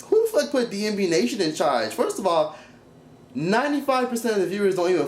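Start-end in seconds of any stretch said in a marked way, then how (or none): 0.0-1.9 exasperated rhetorical question, pitched up; indignant retort. Retold or imitated. Vlogger reacting to the reality show, indignant. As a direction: scoff at the nerve of it. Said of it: "I'm like".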